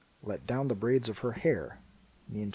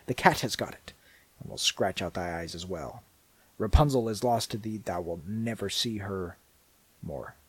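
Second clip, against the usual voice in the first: mocking. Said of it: "she cried mockingly".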